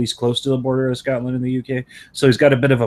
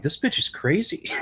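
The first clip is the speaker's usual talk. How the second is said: laughing disbelief; 7 semitones higher, 5 dB quieter than usual. Retold or imitated. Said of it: "I'm like".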